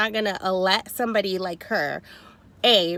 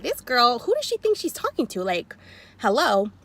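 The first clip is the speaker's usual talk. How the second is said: rising indignation; 3 semitones higher than usual. Retold or imitated. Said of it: "my voice level started kinda going up".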